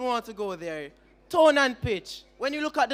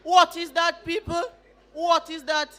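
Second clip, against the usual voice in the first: incredulous; 5 semitones higher, 3 dB louder than usual. Real, not acted. Mocking the patois example.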